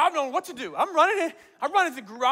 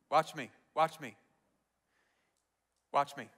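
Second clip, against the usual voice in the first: quiet; 10 semitones lower, 8 dB quieter than usual. Retold or imitated. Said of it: "He told them".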